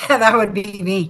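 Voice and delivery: chuckling through the words; laughing. Real, not acted. Repeats own joke while laughing.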